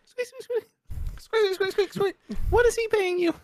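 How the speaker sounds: very high squeaky squirrel voice; rubbery high squeaky toy. Acted. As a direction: squeak like a tiny cartoon squirrel. Squirrel voice complaining about pay.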